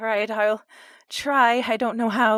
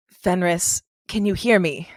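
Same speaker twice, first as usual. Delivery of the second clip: firm, raised call to focus him; 6 dB louder than usual. Acted. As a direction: call his name firmly. Player calls out to Fenris.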